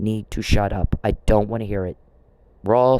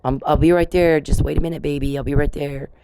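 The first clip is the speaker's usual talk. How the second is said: mock yell to baby; 4 semitones higher than usual. Parent calling to crying baby, imitated higher yell. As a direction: call out to the crying baby from the other room. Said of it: "and you're yelling".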